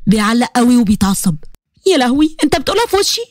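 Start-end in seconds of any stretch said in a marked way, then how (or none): 1.9-3.2 shocked outcry. Acted. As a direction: gasp it out in disbelief. Huda shocked by Saif's remark.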